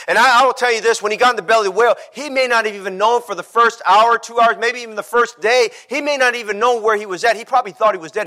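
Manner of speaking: driving sermon delivery; impassioned preaching. Acted. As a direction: preach it with rising urgency. Preaches at full force.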